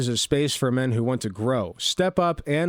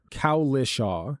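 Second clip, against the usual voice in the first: slow careful name; 2 semitones lower, much slower than usual. Shown as a demonstration. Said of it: "Got it".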